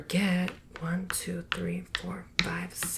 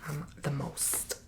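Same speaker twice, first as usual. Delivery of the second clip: sassy brag; 2 semitones lower, 5 dB quieter, slower than usual. Shown as a demonstration. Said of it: "I'm sassy when I play".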